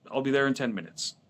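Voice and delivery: calm voice. Retold or imitated. Son to angry driver on the phone, retold calmly. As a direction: imitate a calm, unhurried phone voice. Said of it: "a calm voice on the other end".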